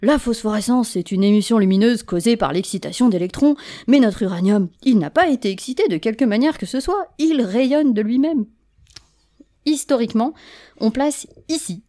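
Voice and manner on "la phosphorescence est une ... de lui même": excited exclamation. Acted. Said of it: "s'exclama Henri".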